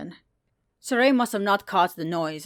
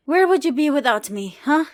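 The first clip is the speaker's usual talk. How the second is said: higher, louder playful jab; teasing joke; 9 semitones higher, 6 dB louder than usual. Acted. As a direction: joke despite the pain. Saray joking while hurt.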